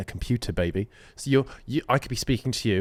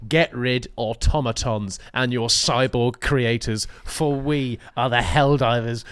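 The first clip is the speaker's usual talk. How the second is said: epic announcer voice; slower than usual. Pretend. Acts out game's war speech.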